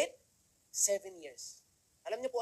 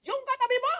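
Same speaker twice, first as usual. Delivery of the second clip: loud, high mock accusation; pointed question; 9 dB louder than usual. Speaker asking about the person beside him, loudly. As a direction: jab at the neighbor.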